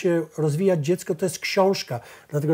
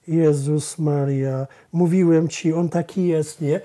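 put-on slow, louder groan of an embarrassed teenager; exasperated teen groan; 4 dB louder, slower than usual. Son embarrassed by his dad in front of Basia, exasperated groan. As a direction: Jezus Maria, dragged out in despair, then a louder complaint. Son's embarrassed outburst, voiced by father.

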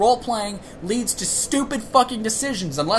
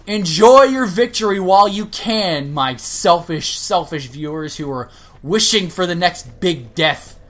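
louder, slow gloating villain threat; hammed-up villain vow; 5 dB louder than usual. To his selfish viewers, a hammed-up villain's vow of revenge. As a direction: play the vengeful villain, drawing it out.

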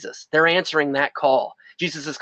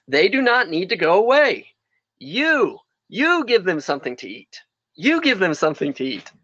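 voicing Jesus; 3 semitones higher than usual. Preacher voicing Jesus, emphatic.

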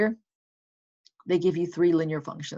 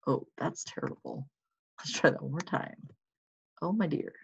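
mock dismay; 8 dB quieter than usual. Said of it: "we're gonna be like".

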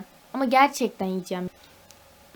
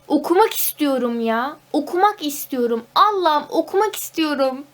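louder, rising plea; pleading; 3 semitones higher, 4 dB louder than usual. Real, not acted. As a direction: beg the heavens to reopen school. Begging to study again. (yalvaran, dramatik)

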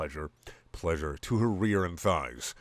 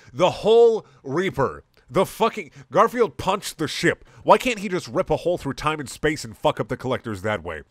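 louder, higher disbelieving rant; laugh-edged ranting at the story; incredulous rant; 5 semitones higher, 6 dB louder than usual. Real, not acted. Ranting about the absurd story.

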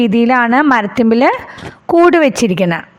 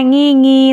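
chick crying. Shown as a demonstration. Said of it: "എങ്ങനെ കുഞ്ഞുകിളി കരയണേ?".

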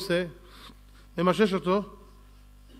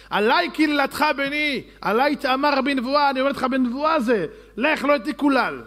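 mother's voice; 7 semitones higher, 5 dB louder than usual. Retold or imitated. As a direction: plead as the mother vouching for her son. Mother voiced commanding Jacob.

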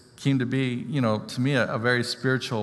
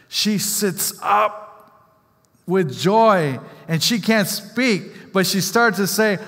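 awed storytelling; 6 semitones higher, 5 dB louder, slower than usual. Retold or imitated. Telling of girl's response.

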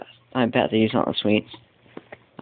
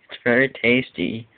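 imagined cat; 2 semitones lower than usual. Retold or imitated. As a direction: give the cat a mild put-on voice as it licks goop. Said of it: "The cat will be like".

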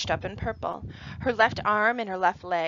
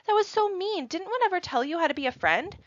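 put-on pitched way up, indignant girl yelling; mock angry yell; 10 semitones higher than usual. A narrator's reading. Emma scolding Caitlin for being mean, high indignant yell. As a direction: scold her classmate like an outraged schoolgirl. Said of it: "Emma yells".

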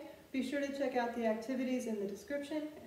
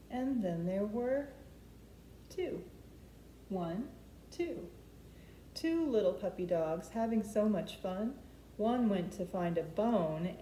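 gentle storytime counting, the last number lifted; reading a counting rhyme to children; slower than usual. Acted. Counting puppy rhyme, flannel board.

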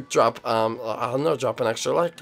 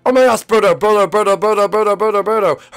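play-acted panic; 4 semitones higher, 4 dB louder than usual. Acted panic over partner.

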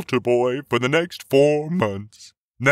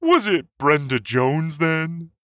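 priest voice, louder, frustration kept in check; frustrated but calm; 3 semitones higher, 4 dB louder than usual. A narrator's reading. Priest asks one last time, frustrated but calm. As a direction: ask with contained frustration. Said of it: "now clearly frustrated, but still calm".

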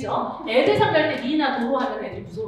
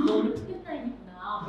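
gentle teasing remark; 3 semitones lower, 6 dB quieter than usual. Shown as a demonstration. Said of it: "우울한 애 있어".

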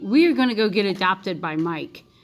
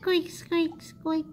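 squeaky hamster; 7 semitones higher, 5 dB quieter, much slower than usual. Pretend. Playing a hamster in game.

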